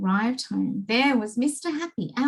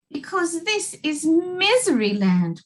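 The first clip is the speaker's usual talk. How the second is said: higher and louder, tearful; weeping king; 7 semitones higher, 4 dB louder than usual. Acted. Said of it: "wept the king".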